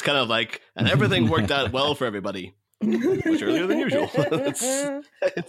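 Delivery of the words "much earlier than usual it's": high laughing aside; a real laugh through the words. Real, not acted. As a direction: chuckle it out, amused. Laughing about finishing early.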